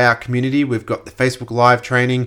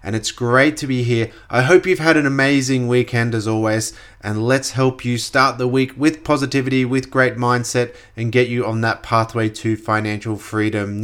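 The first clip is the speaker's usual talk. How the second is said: stuffy, congested nose. Real, not acted. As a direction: speak with a blocked-up nose. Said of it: "I'm a little bit congested".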